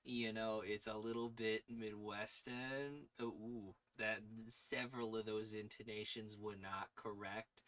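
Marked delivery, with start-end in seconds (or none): 0.6-3.1 Midwestern nasal. Shown as a demonstration. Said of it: "pitch my normal speaking voice into my nose".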